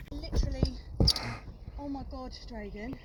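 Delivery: out of breath mid-climb, barely voiced. Real, not acted. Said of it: "Let me catch my breath".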